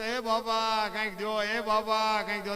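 a hint of a street beggar asking; beggar's plea. Poor beggar begging at city doors, mild plea. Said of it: "બિચારા માગણ".

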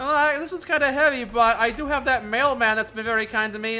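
high eager voice; cheerful girl voice; playing Tali. Voicing Tali.

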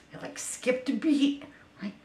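ordinary delivery

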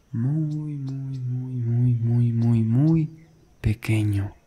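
"muy" chained in one long, gliding run; drawn-out repetition. Acted. Guide asking listener to shrink in imagination, drawn-out repeated "muy". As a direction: start high on "muy" and glide down through the repeats.

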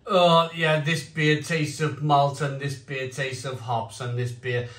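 bored. Retold or imitated. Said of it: "I'm, like, really bored".

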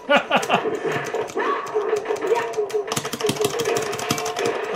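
high airy laughter that runs on; wheezing high-pitched laugh; long helpless laugh. Real, not acted. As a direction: crack up at your own bad luck. Gets hit, bursts out laughing.

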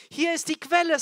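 loud, high-pitched proclamation; crying out. Acted. Jesus announces the spring to the festival crowd, shouting. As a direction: shout it out to the thirsty. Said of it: "der da schreit".

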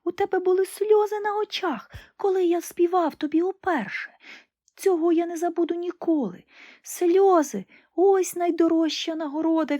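a little bird answering the emperor; nightingale's voice. Acted. Nightingale speaks tenderly. (голос соловейка)

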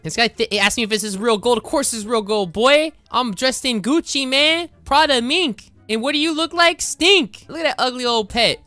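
rich bragging. Acted. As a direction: brag like a spoiled rich kid showing off gold. Rich guy taunting in Roblox.

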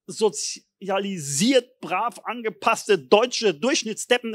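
slow, mocking, every word spelled out; slowly ridiculing the average Germans; sarcastic drawl. Real, not acted. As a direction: sneer at the well-behaved conformists. Sarcastic mockery of conformity.

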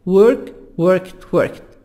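"worked" ending in a light T. Shown as a demonstration. Teacher showing past endings, "worked" finished with light T. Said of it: "زي تي خفيفة".

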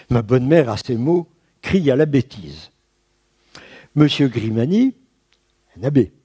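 measured literary reading of a memoir; reading aloud. Acted. Lecturer reads an eighteenth century memoir to students, measured reading voice. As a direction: read the old text with care for the class.

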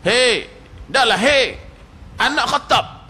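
mock rude Bedouin shouting at Umar; rude call. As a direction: hail him rudely.

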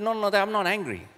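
high defensive denial to his son. Retold or imitated. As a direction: brush it off a little too eagerly. Dad denying anger to son.

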